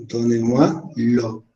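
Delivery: "¿Dónde moi lo?" muy lento, con acento francés; francés exagerado, despacio. Shown as a demonstration. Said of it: "miren su pronunciación". (francés muy pausado en "¿Dónde moi lo?")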